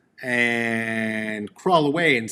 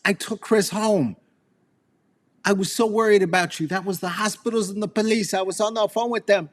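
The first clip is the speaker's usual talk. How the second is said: higher, fast, fretful mom voice; worried mother; 8 semitones higher, faster than usual. Retold or imitated. Mother telling her son she called police, in a higher rushed voice. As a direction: rush it like a frantic mother.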